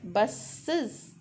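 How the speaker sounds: बसेस drawn out as bus-siz; slow, split बसेस into two syllables; added iz syllable. Shown as a demonstration. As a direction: stretch the hissed s, then iz, in बसेस. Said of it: "इज, ऐसा लगता है इज".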